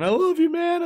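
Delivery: very high mock whine; hammed-up drunken affection; weepy drunk friend. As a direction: imitate a clingy drunk in a high voice.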